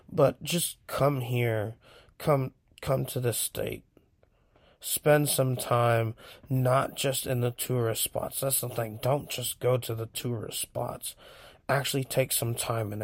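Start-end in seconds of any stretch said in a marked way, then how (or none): 4.8-8.4 whisper. Real, not acted. Urging listeners to visit California.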